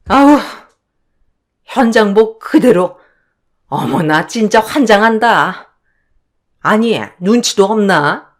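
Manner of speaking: lightly voiced indignant mother-in-law; scornful mother-in-law. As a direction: complain with open disdain at an unwelcome guest. (못마땅해하는 시어머니 말투)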